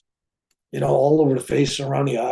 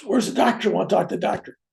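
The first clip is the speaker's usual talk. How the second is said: higher, demanding wife's voice; upset wife; 6 semitones higher, faster than usual. Retold or imitated. Wife demanding to see the doctor, upset. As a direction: demand the doctor, worried and cross.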